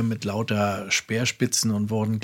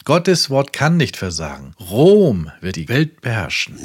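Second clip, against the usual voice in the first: preaching. Acted. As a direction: proclaim it to the whole world from the pulpit. Reads Branham sermon quote. (eindringlich predigend)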